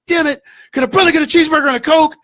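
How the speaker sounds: high, fast exasperated shout; retold yell. Ignored customer slams the counter, retold indignant yell. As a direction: demand service, yelling out after being ignored. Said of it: "all of a sudden I yell out".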